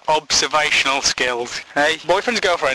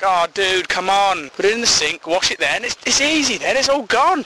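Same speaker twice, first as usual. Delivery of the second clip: exasperated complaint; 5 semitones higher than usual. Acted. Acted complaint about porridge bowl.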